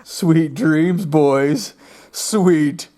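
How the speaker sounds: loud creepy goodnight fading to a whisper; playful spooky voice. Acted. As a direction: tease them spookily, then whisper.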